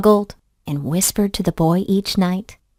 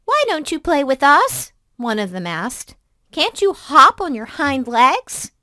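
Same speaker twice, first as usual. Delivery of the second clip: teasing rabbit; 5 semitones higher than usual. Acted.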